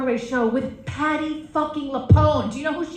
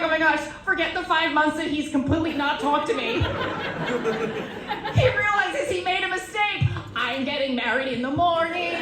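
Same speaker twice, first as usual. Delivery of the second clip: higher, giddy gushing; mock excitement; 4 semitones higher than usual. Comic gushing to herself over a text from him, excited. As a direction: gush as if all is forgiven. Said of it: "I get so excited".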